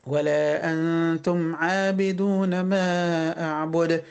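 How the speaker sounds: slow, sustained tajweed chant; Quran recitation. Shown as a demonstration. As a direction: recite with held vowels and hums. Recites verse. (تلاوة مجوّدة بطيئة)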